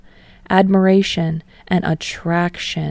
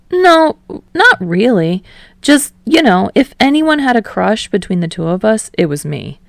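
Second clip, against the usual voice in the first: eager Kirishima voice; 3 semitones higher, 4 dB louder than usual. Acted. Kirishima voiced, higher and louder.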